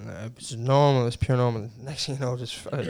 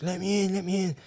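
retold pleading; 7 semitones higher, 3 dB quieter than usual. Voicing man begging to get in.

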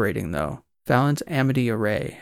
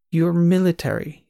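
put-on Eastern European accent; 6 semitones higher, 3 dB louder than usual. A narrator's reading. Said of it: "a man with an Eastern European accent".

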